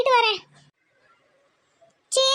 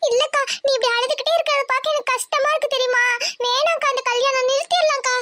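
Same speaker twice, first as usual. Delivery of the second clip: pleading little sister, slightly higher; a touch higher, distressed kid-sister voice; upset little sister; 3 semitones higher than usual. Acted. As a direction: plead with your big sister, upset for her.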